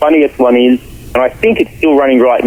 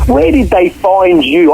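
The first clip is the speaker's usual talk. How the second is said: imitated co-star; 6 semitones higher, slower than usual. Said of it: "He goes".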